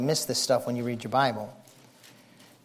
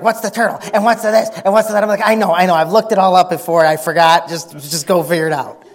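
mock questioning; 4 semitones higher, 8 dB louder than usual. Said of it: "you're gonna be like".

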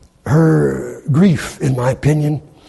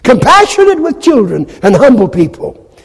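preaching at full force; 8 semitones higher, 6 dB louder than usual. Real, not acted. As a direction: thunder it out like a preacher.

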